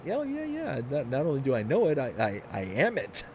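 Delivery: mock proud reveal. Imagined reply to stranger.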